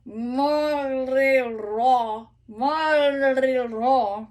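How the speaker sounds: morirò with the last R a little rolled, slow; last R lightly rolled. Shown as a demonstration. Coach showing the lightly rolled last R. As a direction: roll only the last R of morirò. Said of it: "the last one can be a little bit rolled".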